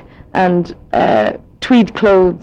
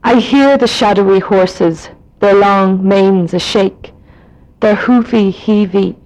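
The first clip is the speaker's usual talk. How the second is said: poem reading; slower than usual. Shown as a demonstration. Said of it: "in my own accent".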